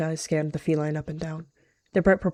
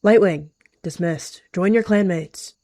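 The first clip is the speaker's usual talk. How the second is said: commanding dismissal; 2 semitones higher, 5 dB louder than usual. Acted. Leader dismisses a clanmate.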